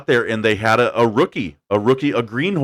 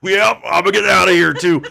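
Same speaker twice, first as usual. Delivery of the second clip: nonchalant; 8 semitones higher, 5 dB louder than usual. Retold or imitated. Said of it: "I'm blowing the smoke like".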